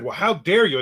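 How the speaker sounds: mock offended older woman, lightly voiced; a touch of prim outrage on dare; Well, how dare you, mildly mimicked; indignant lady. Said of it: "And she said".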